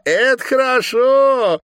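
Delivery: high, loud, slow laughing gloat. A narrator's reading. Raiska laughing at the governor's pain, loud and high. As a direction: crow with delight at his pain. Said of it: "рассмеялась Раиска".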